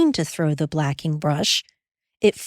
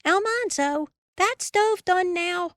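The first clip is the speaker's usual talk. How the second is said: calling out; 13 semitones higher than usual. A narrator's reading. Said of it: "She called".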